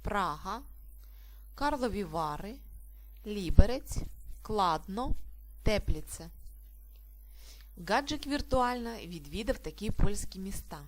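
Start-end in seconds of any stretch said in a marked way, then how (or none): 0.0-6.3 PRAha, KARlovi VAry, LIberets, KLADno, TEPlitse for "Прага, Карлові Вари, Ліберець, Кладно, Тепліце"; "Прага, Карлові Вари, Ліберець, Кладно, Тепліце" word by word, first syllable stressed. Shown as a demonstration. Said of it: "на перший склад".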